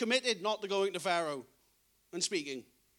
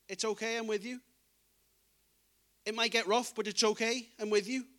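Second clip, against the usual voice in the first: tender reassurance. Retold or imitated. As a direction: hush a scared child with it. God comforting his people.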